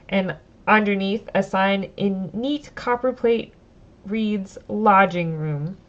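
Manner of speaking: reading the story text aloud, steady and clear; storyteller read; story narration. Acted. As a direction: narrate the scene for the audience. Reads the game text aloud.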